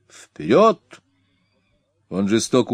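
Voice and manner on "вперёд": 1 urging shout. A narrator's reading. Attila urging horse on.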